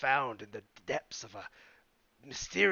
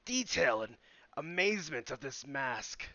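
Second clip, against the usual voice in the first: booming showman's "Good sir!" then a slower finish; grand salesman's pitch; 3 semitones higher, 7 dB louder than usual. Acted. Player character hawking the mask to the goblin, booming showman. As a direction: sell the mask like a carnival barker. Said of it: "I just slam the mask in front of him like".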